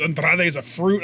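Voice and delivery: mimicking a slip that stops at "fruit"; imitated verbal botch. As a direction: land squarely on the wrong word "fruit". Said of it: "he started with saying".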